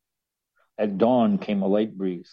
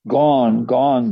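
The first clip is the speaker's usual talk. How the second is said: short, louder barked words; barking dog voice; 6 dB louder than usual. Acted. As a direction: bark it out like a dog. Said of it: "barked the watchdog".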